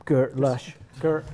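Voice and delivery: low West Country Bristol warm-up phrase; Bristol accent. Pretend.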